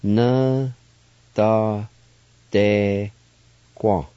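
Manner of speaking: Na, da, de, Kwa spaced out one at a time; syllable by syllable. Shown as a demonstration. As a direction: break Na, da, de, Kwa into separate beats. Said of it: "it's pronounced like this".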